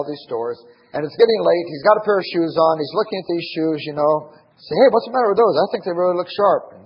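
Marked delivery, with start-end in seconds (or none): 4.8-6.7 upbeat sales pitch. Retold or imitated. Dad urging son about shoes.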